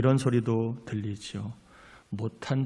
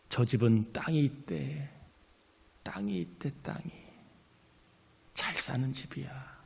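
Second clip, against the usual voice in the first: 수군거림 흉내. Retold or imitated. 이웃이 수군거리는 말.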